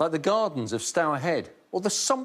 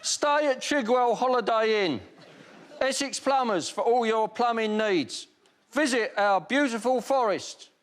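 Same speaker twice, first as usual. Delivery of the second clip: trailer voiceover; 6 semitones higher than usual. Pretend. Mock movie trailer voiceover.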